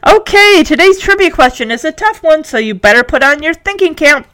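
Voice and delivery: bright-pitched quizmaster, opening word high; radio announcer. Acted. Announcer introduces a tough question, showy and upbeat. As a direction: launch the trivia round like a DJ. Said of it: "the announcer says".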